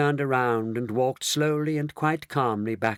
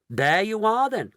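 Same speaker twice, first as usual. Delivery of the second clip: higher, pleased exclamation; happy cry; 10 semitones higher, 4 dB louder than usual. A narrator's reading. Mister Wonka proved right, crying happily. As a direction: exclaim it with a smile. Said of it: "cried Mister Wonka, flashing a happy smile".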